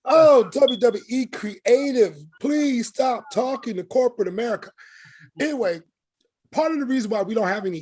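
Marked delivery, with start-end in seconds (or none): 0.1-4.7 exasperated plea. Real, not acted. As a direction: beg them wearily to stop.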